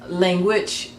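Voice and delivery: "Language" as lan-GUAGE; Hebrew-style "Language", weight at the end; stress on last syllable. Shown as a demonstration. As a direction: lean on the second half of "Language". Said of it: "emphasis would be on the latter part".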